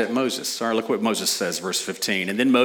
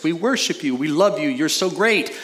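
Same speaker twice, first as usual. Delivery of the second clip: higher, gushing mock praise; gushing worshippers; 5 semitones higher than usual. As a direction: overdo the eager praise. Mimicking fickle worshippers.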